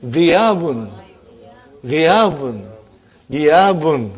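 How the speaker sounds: Ghiyabun said three times clearly; Arabic word Ghiyabun repeated slowly; drilled answer. Shown as a demonstration. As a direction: model the word Ghiyabun for the class. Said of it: "what is the master".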